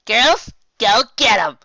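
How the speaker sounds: loud, high, slow rally cry; rally the troops; loud slow battle order; commanding call. Acted. Boss ordering her girls.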